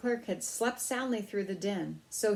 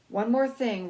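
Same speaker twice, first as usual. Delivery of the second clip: anxious; 4 semitones higher, 7 dB louder than usual. A narrator's reading. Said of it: "Ralph said anxiously".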